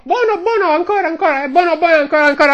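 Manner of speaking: mock Asian accent, high and repetitive; mimicked Asian tourist. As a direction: imitate delighted foreign tourists in an Asian accent. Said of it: "Però com'è il gelato mio?".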